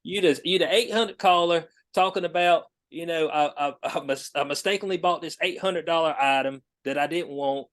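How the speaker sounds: a hint of a sick-of-it customer service rep snapping at a caller; fed-up call centre worker. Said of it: "Susie be like".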